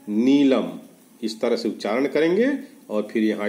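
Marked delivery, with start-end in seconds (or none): 0.1-0.7 नीलम said fully as nee-lam, falling at the end; clear demo pronunciation. Shown as a demonstration. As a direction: say नीलम clearly to close the list. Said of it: "उनको जोर जोर से उच्चारण करना है". (नीलम का साफ़ उच्चारण)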